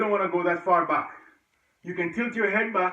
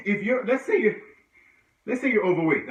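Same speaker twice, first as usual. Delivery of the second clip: out of breath; 3 semitones higher than usual. Real, not acted. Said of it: "I'm out of breath".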